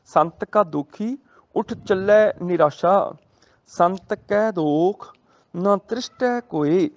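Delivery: slow, measured scripture recital; gurbani recitation. Shown as a demonstration. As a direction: draw each word out reverently. Recites gurbani line slowly. (ਹੌਲੀ ਪਾਠ ਦੀ ਲੈਅ)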